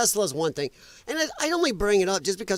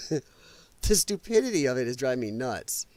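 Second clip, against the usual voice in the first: whispered under the breath in disbelief; a breathless, fed-up whisper; exasperated whisper; 5 semitones lower than usual. Real, not acted. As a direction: hiss it out, fed up. Exasperated aside to viewers.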